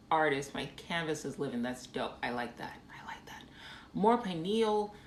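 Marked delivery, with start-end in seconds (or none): 2.9-3.4 whispered under the breath; I like that breathed as a soft whisper. Real, not acted. Whispering the praise back to a viewer's comment.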